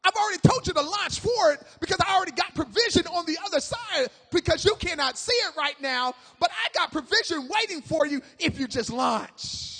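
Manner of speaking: annoyed, emphatic pulpit outburst; a little annoyed. Acted. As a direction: insist loudly, as if tired of repeating it. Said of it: "Jesus get a little annoyed".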